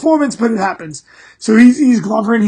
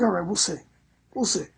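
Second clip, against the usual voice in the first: Odin's reply; 5 semitones lower, 17 dB quieter than usual. Retold or imitated. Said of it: "He's like".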